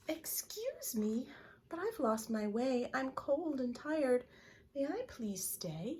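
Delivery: high, small, pleading chipmunk voice; tiny cold chipmunk asking to stay; little chipmunk. Acted. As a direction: beg to come in out of the cold. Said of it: "See the little chipmunk".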